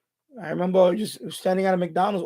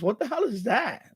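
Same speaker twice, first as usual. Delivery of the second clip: baffled disbelief; 4 semitones higher, 3 dB quieter than usual. Real, not acted. Baffled again by sumo worm farmers.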